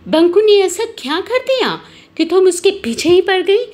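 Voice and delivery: swooping, theatrical demand for answers; acted affronted mum with exaggerated intonation; indignant mother. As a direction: confront the neighbour on your son's behalf. Banku's mother confronts neighbour.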